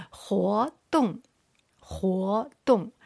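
活动 with 活 rising and 动 falling; second tone, fourth tone. Shown as a demonstration. Teacher drilling the fourth line, 活 rising, 动 falling. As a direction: lift 活, then drop 动 short. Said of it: "second tone with the fourth tone".

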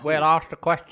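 chewing while talking; mouth full. Real, not acted. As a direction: talk through a sweet. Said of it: "sorry, I'm eating fruit pasta".

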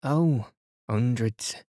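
smiling, teasing. Acted. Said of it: "Cynthia smiled too".

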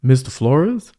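imitated big dude, questioning rise; deep voice. Big man recognizing his teacher outside church, mock deep voice. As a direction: lightly mimic a big man checking who it is. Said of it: "with this deep voice".

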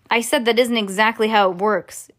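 ordinary delivery, nothing marked

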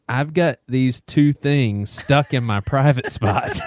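put-on slow, laughing quote of a child; retold through laughter. Telling friends what the boy said, laughing. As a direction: laugh through the boy's words.

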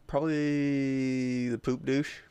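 mock product name. Naming a joke product.

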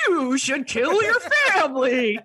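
horsey authoritative doll voice; mock Robert the Doll. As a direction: command them like a creepy doll. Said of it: "I would do anything that voice told me to do".

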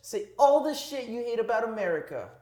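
high exaggerated anime voice; squeaky cartoon anime delivery; overacted anime dub. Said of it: "Anime voice, anime voice".

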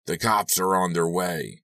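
slow, deliberate announcement; announcing. Acted. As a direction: declare it to the room, slowly. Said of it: "he announced".

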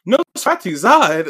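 mock-dramatic group call; group shout. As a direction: announce it like a cartoon reveal. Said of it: "when they all say".

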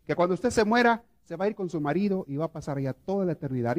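consoling priest. Retold or imitated. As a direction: reassure the grieving widow from the pulpit, slowing on the comfort. Priest consoling widow at funeral.

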